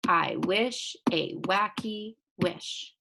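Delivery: slow, evenly separated beats on "I wish a wacky wish"; syllable by syllable. Shown as a demonstration. Teacher taps out syllables for pupils, "I wish a wacky wish" slow and separated. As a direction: tap out "wacky" as two slow beats, each word set apart. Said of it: "Do you hear those six syllables?".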